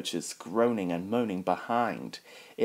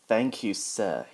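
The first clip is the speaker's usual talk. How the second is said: smiling. Acted. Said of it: "he smiled".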